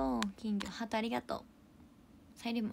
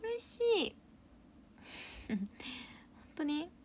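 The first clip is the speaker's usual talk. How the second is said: much higher squeal of joy; delighted squeal; 7 semitones higher, slower than usual. Real, not acted. Streamer squealing at a viewer's praise. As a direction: squeal with happiness. Reacting to big compliment.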